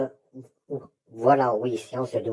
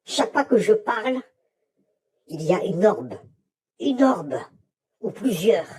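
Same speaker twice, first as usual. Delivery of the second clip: excited; 7 semitones higher than usual. Real, not acted. Orbs appear when he speaks.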